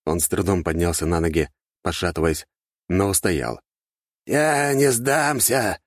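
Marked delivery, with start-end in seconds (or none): 4.3-5.8 very slow, high-pitched hoarse defiance; wounded archmage rasps his refusal; rasped defiance. A narrator's reading. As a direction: rasp it out, spitting blood. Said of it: "прохрипел он".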